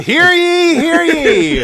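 high loud town crier call. Pretend. Mock town crier announcing.

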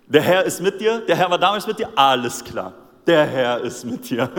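lauter, höher ironisch wiederholter Segen; übertrieben ironisch abwinken; sarkastisch. Retold or imitated. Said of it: "das ist purer Sarkasmus hier". (Saul wiederholt den Segen voll Hohn)

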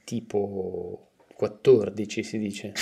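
quattordici said slowly, each syllable distinct; careful pronunciation. Shown as a demonstration. Actor showing how quattordici is said, slowly. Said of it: "vanno dette in una certa maniera".

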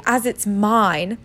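slow, insistent claim; furious. Acted. Boy insists the letter is his, mildly furious. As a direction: stretch the words out firmly. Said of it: "said Harry furiously".

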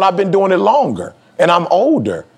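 high, defensive protest; retold stubborn claim, pitched high; stubborn insistence. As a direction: dig in your heels. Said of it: "I was stuck on".

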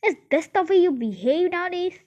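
high shocked question; amazed and shocked. A narrator's reading. Aunt shocked at her nephew, high scolding question. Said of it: "amazed and shocked".

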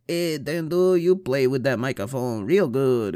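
a hint of a goofy boss voice; lightly voiced boss. Imagined boss praising his mic skills, lightly put-on voice. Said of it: "she'd be like".

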